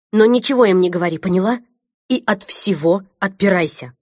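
fast, loud urgent orders; urgent command. Acted. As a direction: press her hard, quickly.

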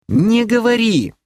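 очень высоко и громко; крикни, чтобы он замолчал; окрик. Acted. Сестра обрывает брата. (резкий высокий окрик)

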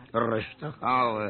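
slow, scornful repeat of his words; mocking echo. Frank mocks Willem's advice to stay calm, slow and scornful. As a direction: throw his words back at him, slowly. Mocks partner's cautious suggestion.

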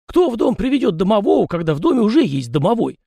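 high chatty peasant voice, pitched well up; folksy yard spirit. A narrator's reading. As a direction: play the fussy little yard spirit, talking nonstop. Tikhon speaks.

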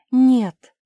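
high, loud, pressing plea; urgent warning. Acted. Cinderella warns Mafi against the trick, urgent. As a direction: warn her before it's too late.

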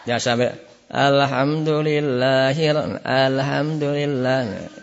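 alhamdulillah said slowly with the a too far up; drawn-out wrong a in alhamdulillah; wrong vowel. Shown as a demonstration. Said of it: "Ini bagian atas".

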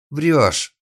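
high, loud cry of liar; shouted accusation. A narrator's reading. Girl shouts at the captor that he lies, loud cry. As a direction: scream it at him. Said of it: "вскрикнула девушка".

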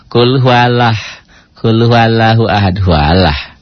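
hesitant, broken recitation of Qul huwallah; stumbling Quran reading. Shown as a demonstration. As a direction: recite haltingly, repeating the start. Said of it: "Ada orang yang baca".

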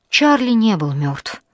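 ordinary delivery

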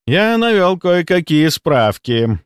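slow, drawn-out and mysterious; hint at secret knowledge, stretching the words. A narrator's reading. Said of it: "загадочно произнёс Рудаков, понижая голос".

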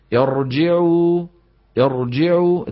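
"يرجع" with the ra trilled several times; over-trilled ra. Shown as a demonstration. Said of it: "التكرار المؤدي إلى أكثر من راء". (تكرير الراء في "يرجع")

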